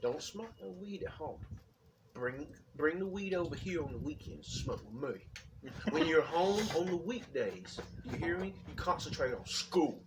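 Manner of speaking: lightly voiced father laying down rules; imitating dad's voice. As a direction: mimic dad instructing his boy. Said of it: "my dad talked just like this".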